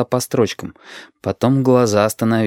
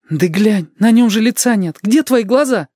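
much higher, louder; insistent; 12 semitones higher, 3 dB louder than usual. Acted. Lidka insists to Shut that Dima looks ill, high and urgent. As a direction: urge him to look.

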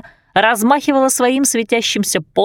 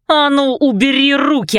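barked command; 6 semitones higher than usual. A narrator's reading. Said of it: "рявкнула Руби".

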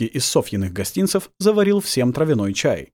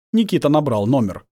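ordinary delivery

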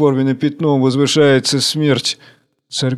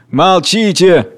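high, slow, imperious cry; commanding shout; 5 semitones higher, 4 dB louder, much slower than usual. Acted. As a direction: silence them with power. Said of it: "вдруг кричит властно в безумии". (властный крик)

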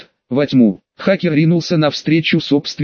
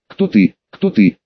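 eerie echo; 5 semitones lower than usual. A narrator's reading. Thing echoing question in dark.

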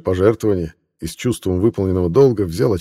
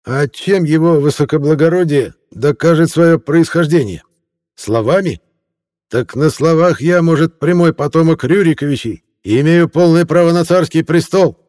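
high, fawning tipsy reporter voice; a drunk hack laying on the flattery, pitched high; a tipsy newspaperman in a raised voice; 10 semitones higher, 7 dB louder than usual. Acted. Reporter claims royal descent.

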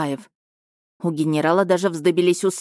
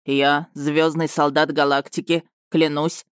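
slow, solemn repeat; 2 semitones lower than usual. Acted. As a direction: swear it gravely and slowly. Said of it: "торжественно повторил лётчик".

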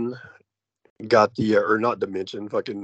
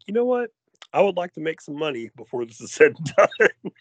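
lightly voiced studio executive, higher pitched; mock a fed-up studio in a higher voice; studio boss impression; 5 semitones higher than usual. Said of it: "eventually they're all like".

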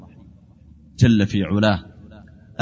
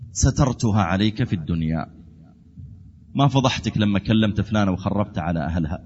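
lower, measured preacher's voice; gentle reassurance; 4 semitones lower than usual. Acted. God tells His servant of covered sins, gentle reassurance.

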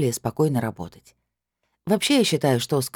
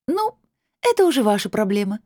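much higher, sneering through a smug smile; snide grin; 8 semitones higher than usual. A narrator's reading. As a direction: blonde sneers that it's not her problem. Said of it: "в ехидной улыбке".

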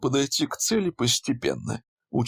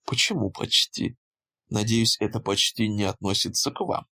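half-joking coquettish. Acted. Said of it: "полушутя, полусерьёзно ... с претензией на кокетство".

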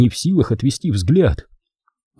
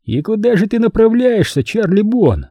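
menacing question; 10 semitones higher than usual. Acted. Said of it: "спросил Манфред".

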